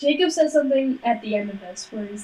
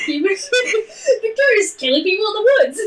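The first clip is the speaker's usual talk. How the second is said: mock reader quote; 3 semitones higher than usual. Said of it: "They'd be like".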